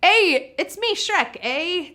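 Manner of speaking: lightly put-on Canadian Shrek; jokey attempt at a Canadian accent. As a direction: do a playful, hammed-up Canadian "eh". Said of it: "trying so hard with my Canadian accent".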